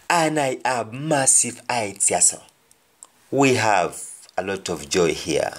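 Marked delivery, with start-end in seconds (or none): 0.1-2.4 Jamaican patois. Shown as a demonstration. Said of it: "somebody's giving a speech".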